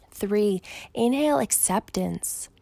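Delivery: unhurried meditation guide with long pauses; measured, calming breathwork instruction; guided breathing meditation. Acted. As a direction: count them calmly through each breath, leaving room to breathe. Leads counted breathing meditation.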